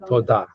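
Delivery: toda, stress on the final "da"; careful end-stressed model of toda; last-syllable accent. Shown as a demonstration. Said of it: "accented on the last syllable".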